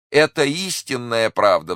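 high, loud, drawn-out exclamation; crying out. A narrator's reading. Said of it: "вскричал купец". (громкий протяжный возглас)

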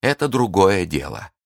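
lightly mocking indifference; a hint of a sneering captor. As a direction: captor shrugging her off, mildly mocking. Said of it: "насмешливо".

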